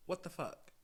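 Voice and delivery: breathy exasperated whisper. Real, not acted. Venting to viewers about him, sighing whisper. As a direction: sigh it out under your breath.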